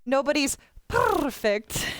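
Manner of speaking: slow dramatic anime delivery; JoJo way. Pretend. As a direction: stretch out "perfect" dramatically. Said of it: "say it the, the JoJo way".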